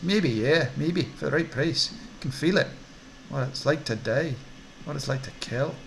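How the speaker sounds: lightly nervous, lilting Scottish orc; nervous Scottish dealer. Acted. Orc dealer cautiously offering darker wares, a touch nervous. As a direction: hedge it, pitch swooping, with a Scottish lilt. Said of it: "more nervous now".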